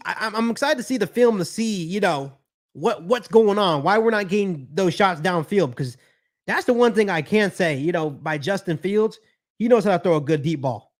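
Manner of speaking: normal talking voice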